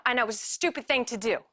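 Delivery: usual speaking voice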